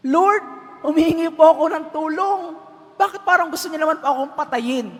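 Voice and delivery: high, quick, indignant plea; alarmed protest. Acted. Stranded man protests God's order.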